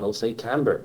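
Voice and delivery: Camborne said broad Cornish style; broad Cornish dialect Camborne; broad Cornish accent. Shown as a demonstration. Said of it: "maybe try and be a bit broad".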